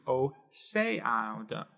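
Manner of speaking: "océano" with the E stressed, o-CE-a-no; slow "océano", leaning on the E. Shown as a demonstration. Teacher slowly modeling the stressed E in "océano". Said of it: "put the emphasis right here on this E".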